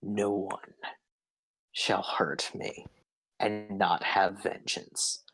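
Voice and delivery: slow, low, half-whispered threat; measured, menacing spellcaster voice; vengeful villainess. Acted. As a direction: vow vengeance slowly, with heavy pauses. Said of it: "and she says".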